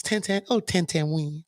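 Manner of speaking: high, mocking lady voice; sing-song teasing; light falsetto taunt. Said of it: "That's the lady voice".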